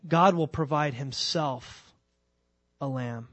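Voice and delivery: GOD stressed, slow and falling, on "God will provide himself a lamb"; slow emphatic reading. Shown as a demonstration. Preacher savours the King James wording to the congregation, slow and stressed. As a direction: linger on each word of the verse. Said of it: "listen to how it goes in the King James".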